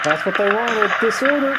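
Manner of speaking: high, loud gleeful call; delighted outburst over the dice; excited. Real, not acted. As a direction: cheer the result like a fan. Gleeful commentary on a dice result.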